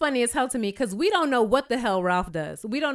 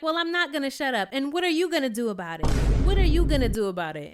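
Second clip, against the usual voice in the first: defiant mock challenge; 3 semitones higher, faster than usual. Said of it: "Courtney's like".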